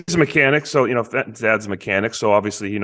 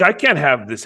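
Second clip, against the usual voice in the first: protesting; 5 semitones higher than usual. Retold or imitated. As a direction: imitate an exasperated kid objecting. Retold protest of a child.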